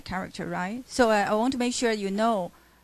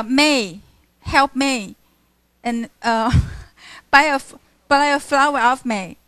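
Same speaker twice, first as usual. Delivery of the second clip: Cockney accent; 6 dB louder than usual. Shown as a demonstration. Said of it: "how Eliza pronounces".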